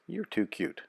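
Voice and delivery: high, soft, amused coo at the puppy; laughing fondly. A narrator's reading. Pierre laughing to the cute puppy, soft and fond. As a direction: laugh it out fondly, a touch lighter. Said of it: "Pierre would laugh and tell Phoenix".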